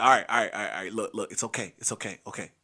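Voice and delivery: reassuring a scared brother; calming down. Retold or imitated. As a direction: settle him down gently. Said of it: "So I was like".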